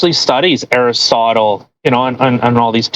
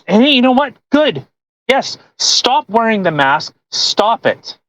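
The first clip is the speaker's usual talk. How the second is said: mock cheering; 6 semitones higher than usual. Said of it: "I would have been".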